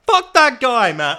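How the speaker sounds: high, loud blast of a curse; angry outburst. Real, not acted. Cursing the guy to listeners, high and loud.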